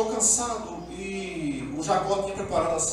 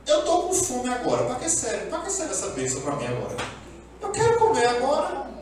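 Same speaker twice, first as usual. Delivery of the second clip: hungry Esaú; 5 semitones higher than usual. Retold or imitated. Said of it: "o texto diz que ele falou assim".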